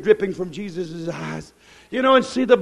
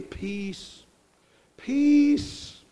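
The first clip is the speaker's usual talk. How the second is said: soft command; 3 semitones higher, 7 dB quieter than usual. Retold or imitated. Jesus calming the storm.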